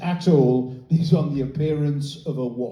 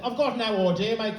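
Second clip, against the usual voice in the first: put-on Birmingham accent; 5 semitones higher than usual. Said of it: "He said".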